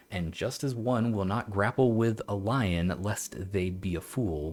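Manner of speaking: measured, formal read-aloud; old text reading. Acted. Streamer reads an old occult text to viewers, measured recital. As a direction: read it slowly like an old treatise.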